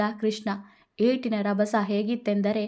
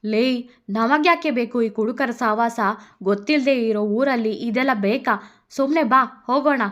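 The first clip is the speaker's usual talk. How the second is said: put-on drunk man pleading; 2 semitones higher, 5 dB louder than usual. Drunk man urges his partner to leave, loud. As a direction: pull her away nervously.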